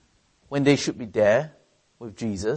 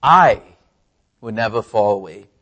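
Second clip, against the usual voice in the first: louder, confident boasting vow; proud vow; 8 dB louder than usual. Retold or imitated. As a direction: promise it proudly, chest out. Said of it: "proudly said".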